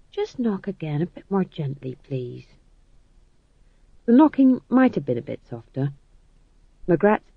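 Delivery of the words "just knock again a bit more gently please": soft request. Acted. King asks for softer knocking.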